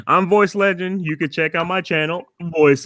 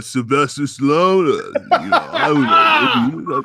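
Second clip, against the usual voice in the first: Stallone impression; slower than usual. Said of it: "Can you do Stallone".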